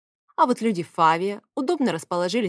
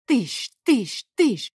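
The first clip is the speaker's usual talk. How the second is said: crash noises; 5 semitones higher, 4 dB louder, much slower than usual. A narrator's reading. Door-ramming noise imitated.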